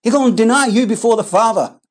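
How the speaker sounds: a hint of a sneering devil; devil's taunting voice. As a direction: needle him like the devil. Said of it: "The devil's whispering in one ear".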